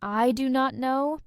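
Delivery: "I do not know" with every word separate; full formal form. Shown as a demonstration. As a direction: say "do not" as two full, distinct words. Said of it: "instead of saying".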